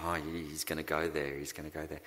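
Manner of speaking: lightly imitated weary sigh; low, quick mock-resigned aside; Roger. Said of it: "Roger's sighing, and he's saying".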